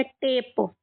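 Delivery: टेप with no vowel of the written final E; silent final E. Shown as a demonstration. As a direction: sound out टेप as a long टे and a light released प. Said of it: "हम इसको क्या पढ़ेंगे".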